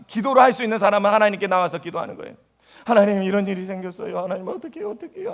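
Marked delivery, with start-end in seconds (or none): 2.9-5.3 a hint of a frantic believer, pitch jumping up; panicked prayer. Preacher imitating a worried believer's prayer, mild panic. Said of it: "하면서 막 기도하는 거예요".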